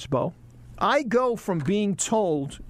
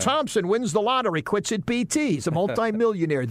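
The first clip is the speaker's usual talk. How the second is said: newscaster voiceover; 4 semitones higher than usual. Shown as a demonstration. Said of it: "do the voiceovers every morning".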